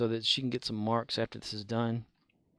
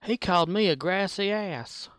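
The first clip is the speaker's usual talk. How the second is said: mock indignant complaint, pitched higher and louder; offended coworker; 8 semitones higher, 3 dB louder than usual. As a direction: play the insulted coworker demanding an apology. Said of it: "she said".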